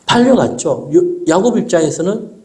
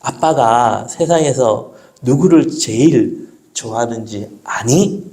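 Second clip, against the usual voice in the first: gentle father question; 3 semitones lower than usual. Retold or imitated. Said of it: "제가 물어보는 겁니다".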